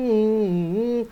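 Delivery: a short, light mock hum; lightly imitating the eerie hum; imitated humming. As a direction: hum it like the voice he heard. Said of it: "ganun siya".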